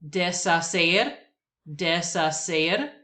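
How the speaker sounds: deshacer said slowly, des-a-SER, silent h; deshacer, stress on SER; Spanish word. Shown as a demonstration. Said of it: "words that I will pronounce".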